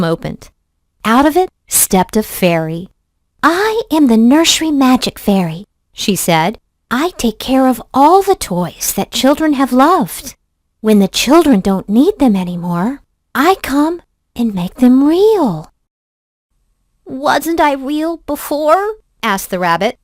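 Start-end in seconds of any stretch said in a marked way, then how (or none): 3.4-15.7 fairy voice. Acted. Fairy introduces herself. 17.0-19.0 wondering rabbit. Acted. Rabbit asks fairy.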